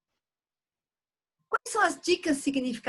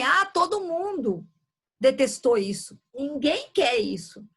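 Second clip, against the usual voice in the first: acted complaint; slower than usual. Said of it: "Quando alguém fala assim".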